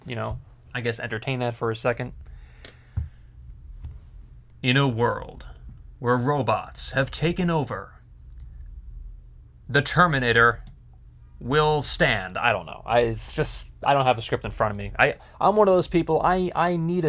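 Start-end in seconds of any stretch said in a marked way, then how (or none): 4.6-12.4 big-screen trailer voiceover; movie trailer narration. Shown as a demonstration. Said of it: "narration for a, a movie trailer".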